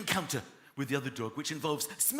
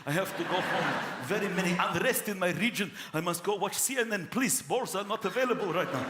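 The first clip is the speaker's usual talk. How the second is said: put-on Afghan hound accent. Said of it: "Afghan hound coming over".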